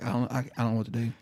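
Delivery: quick, stammering, lightly flustered retelling; retold shell shock. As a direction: stumble over the start, mildly lost. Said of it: "I'm shell-shocked".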